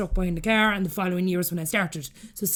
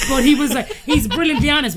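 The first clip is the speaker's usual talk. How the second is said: louder, higher, amused; laughing while talking; 6 semitones higher, 8 dB louder than usual. Real, not acted. Telling host about her blunt doctor, laughing. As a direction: talk through a laugh.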